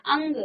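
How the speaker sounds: अंग said with the air coming out through the nose only; nasal vowel demo. Shown as a demonstration. Teacher showing the class how अंग is sounded through the nose. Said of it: "जब आप अंग बोलेंगे ना".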